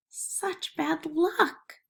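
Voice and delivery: slow, gentle sympathy; sympathetic. Acted. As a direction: slowly console a neighbor over his loss. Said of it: "they said sympathetically".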